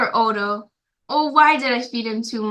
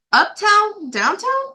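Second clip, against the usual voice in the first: high, eager questioning; a hint of worried asking; anxious questions; 10 semitones higher, slower than usual. Boy asking firemen where to take the fish, high anxious questions. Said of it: "I asked".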